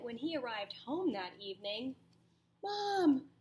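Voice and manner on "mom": high, loud cry of "Mom, Mom"; frightened child shrieking "Mom"; panicked scream. Acted. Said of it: "Jasper screamed".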